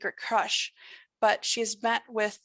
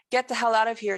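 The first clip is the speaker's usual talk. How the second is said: shouted; 5 dB louder, faster than usual. Acted. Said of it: "June shouted".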